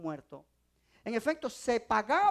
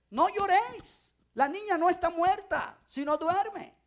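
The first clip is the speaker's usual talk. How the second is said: louder and higher, a firm command; firm declaration; 5 semitones higher, 3 dB louder, slower than usual. Acted. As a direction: proclaim it with authority over the mourners. Jesus quoted, second time.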